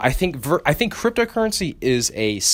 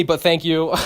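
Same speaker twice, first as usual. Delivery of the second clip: laughing; 4 semitones higher than usual. Real, not acted. Joking thanks to Dante.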